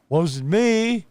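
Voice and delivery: high sing-song "not my fault" voice; mock innocent voice. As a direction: play the innocent, dodging blame. Mocks businesses dodging blame.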